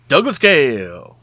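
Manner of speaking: loud, big co-host intro; grand announcement. Acted. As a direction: announce him like a showman.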